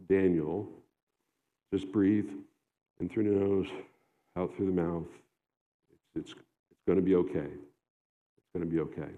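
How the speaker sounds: put-on calm a weary old man down; God's reassurance. God to the weary exile Daniel, tenderly reassuring. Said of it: "like God saying".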